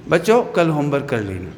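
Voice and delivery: a hint of a gentle teacher; loving teacher. Teacher kindly reminding pupils about homework, mildly gentle. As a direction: ask it kindly, lightly voiced. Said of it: "आपकी teacher आपको बड़े प्यार से कहते हैं".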